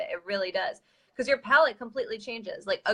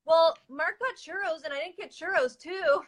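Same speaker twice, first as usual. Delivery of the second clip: husband's excuse; 6 semitones higher than usual. Retold or imitated. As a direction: drag it out like a sulky kid defending himself. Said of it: "This was John's response".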